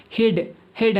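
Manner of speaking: హెడ్ said with a short "eh" vowel; pronunciation demo. Shown as a demonstration. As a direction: model హెడ్ for learners, rhyming with "bed". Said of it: "అని పలకాలి అనమాట".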